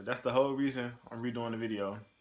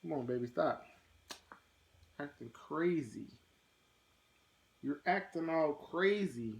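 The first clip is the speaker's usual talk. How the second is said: mock bystander; 5 semitones higher, 3 dB quieter than usual. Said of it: "you would be like".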